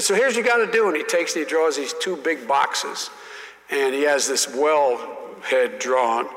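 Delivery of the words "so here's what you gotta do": higher, louder folksy explaining; lightly drawled Southern senator; imitating Russell Long. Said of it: "He said".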